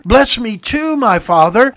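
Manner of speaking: high, loud, desperate plea to a father; loud bitter cry. Acted. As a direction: beg out loud, heartbroken. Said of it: "he cried out with a loud and bitter cry".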